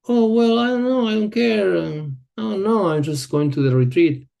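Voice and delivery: a touch of playful indifference; mock careless excuse. Voicing her own past excuse.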